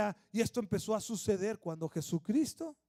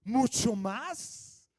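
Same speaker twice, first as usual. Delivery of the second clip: slow stretched praise of an acquaintance; a hint of an amazed friend; slower than usual. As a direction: marvel at how patient they are now. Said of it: "que digan".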